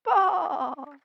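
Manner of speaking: shouted baa; dog bleating baa; sheep baa. Acted. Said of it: "He could only say".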